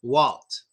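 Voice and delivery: low "Walt" with a hard L and clear T. Shown as a demonstration. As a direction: press the tongue for the L in "Walt". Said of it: "make the L sound hard".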